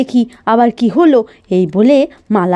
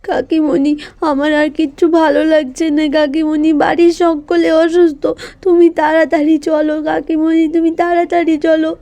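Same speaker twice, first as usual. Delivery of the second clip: crying; 3 semitones higher than usual. Acted. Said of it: "কাঁদতে থাকে".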